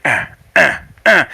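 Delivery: short punctuated grunts; hip-thrust grunts. Acted. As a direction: grunt once on each thrust. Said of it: "shimmy, like, with his hips".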